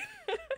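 quick soft laugh; small amused giggle; short chuckle. Real, not acted. Chuckles after saying not ready.

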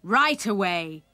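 brief storybook outcry; father crying out. A narrator's reading. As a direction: add a loud fatherly command. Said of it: "cried his father".

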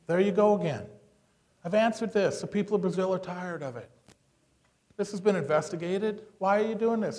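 firm, indignant brush-off, not angry. Shown as a demonstration. Politician brushing off a reporter, indignant. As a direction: push back, indignant but in control. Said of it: "Be indignant".

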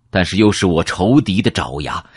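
plain reading voice

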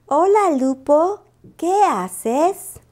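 vocecita aguda y lenta de novia; voz de Lupita. Acted. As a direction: saludo cantarín y dulce, más agudo. Lupita saluda a Lupo. (Lupita saluda a su novio, aguda)

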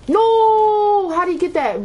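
sudden loud no; frustrated shout. Real, not acted. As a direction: yell it as the game slips away. Losing the match, shouting.

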